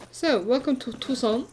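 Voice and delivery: put-on a light, jokey French accent; lightly put-on French accent; funny French accent. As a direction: greet them like a hammed-up French host. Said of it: "in a funny French accent".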